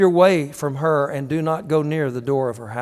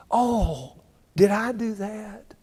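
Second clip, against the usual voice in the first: mock innocent; 5 semitones higher, slower than usual. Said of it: "that's what a lot of people do".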